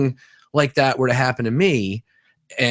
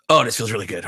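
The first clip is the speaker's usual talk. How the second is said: pleased surrender; faster than usual. Retold or imitated. Client gives in, pleased.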